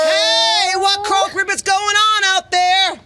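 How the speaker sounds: frog call. Acted. Frog calls from the well.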